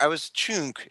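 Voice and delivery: soft, elegant British-style delivery; British accent. Shown as a demonstration. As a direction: imitate the host's English accent. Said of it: "With your accent, it sounds much nicer".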